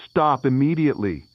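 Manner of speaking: high, loud stop; retold scream. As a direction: yell stop at the kids.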